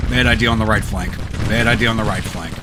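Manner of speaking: loud, urgent warning; alarmed exclamation. Real, not acted. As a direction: blurt it out in alarm. Alarm at battle turning.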